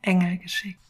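gentle storytelling read aloud; story narration. A narrator's reading. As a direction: read it like a children's picture book. Reads picture book story aloud.

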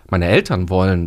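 "Eltern" picked out with emphasis; stress on ELTERN. Shown as a demonstration. Coach contrasting parents' wishes with one's own, stress on "Eltern". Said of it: "wenn ich das nochmal so betone".

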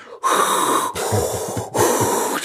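rasping mechanical breath, imitated; Darth Vader breathing. Recalling the Vader breathing under the chapter, imitated rasping breath. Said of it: "dieses Darth Vader atmen".

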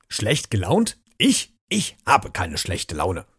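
indignant squeak on Ich, then a sulky slow mutter; grumbling. Acted. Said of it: "murrte Jim".

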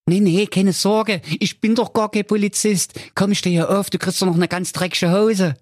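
high goofy cartoon voice; Holger Honk's voice. A narrator's reading. Honk thinks about flowers for his mother, high goofy voice. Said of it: "sprang mutig aus dem Polizeiauto und rief".

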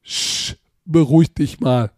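hushing "Sch" then a condescending "beruhig dich mal"; lightly voiced old woman; imitating old woman. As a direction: mimic a patronizing old lady shushing you. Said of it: "was sie zu mir sagt".

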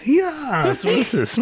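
very high proud declaration; hammy stage actor. Acted. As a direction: squeak it out triumphantly. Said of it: "theatralischen Einstieg".

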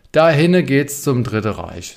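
slow, loud mock directions; exaggerated. Shown as a demonstration. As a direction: overdo it, stretching the words out. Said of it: "Das ist natürlich übertrieben".

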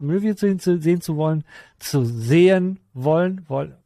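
stuck repeating like a skipping record; words looping like a scratched vinyl. Pretend. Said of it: "Die Platte, die Platte hängt gerade".

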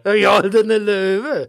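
slow, proud and drawn out; savoring the phrase. Pretend. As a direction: relish each word slowly. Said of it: "Das gefällt mir gut".

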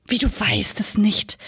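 puzzled, slow whisper; surprised. Acted. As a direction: whisper it in disbelief, slowly. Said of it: "sagte Frau Okapi verwundert". (verwundert, langsam geflüstert)

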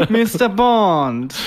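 very slow, drawn-out villain line; mock Bond villain. Imitating the examiner as a Bond villain, very slow. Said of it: "redet wie ein Bond-Bösewicht".

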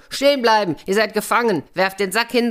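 high, loud commanding yell; captain's shout. A narrator's reading. Captain yelling at the six to halt, loud shout. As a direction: bark the orders at the riders. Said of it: "da schrie der Hauptmann".

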